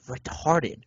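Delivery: lightly imitated hushed voice; retold whisper. Woman objecting to the fan's word, imitated hushed. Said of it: "why did you whisper that?".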